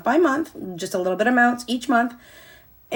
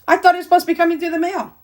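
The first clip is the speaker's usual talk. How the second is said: surprised disbelief; 8 semitones higher, 5 dB louder, much faster than usual. Retold or imitated. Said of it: "I was like".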